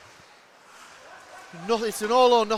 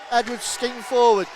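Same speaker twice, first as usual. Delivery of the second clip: rising loud play-by-play shout; excited call; 4 semitones higher, 3 dB louder than usual. Real, not acted. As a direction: build the call as the rush comes. Rush up the ice.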